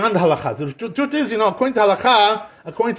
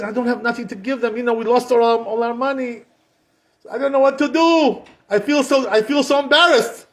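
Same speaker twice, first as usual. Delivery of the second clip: higher-pitched, mildly hammed-up distress; helpless lament, climbing higher toward the end; acted upset; 5 semitones higher than usual. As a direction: play a mortified man at a loss. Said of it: "Why are you so upset?".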